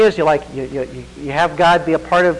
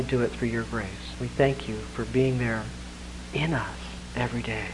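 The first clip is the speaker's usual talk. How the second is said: closing prayer; 3 semitones lower than usual. Real, not acted. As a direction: pray humbly over the congregation.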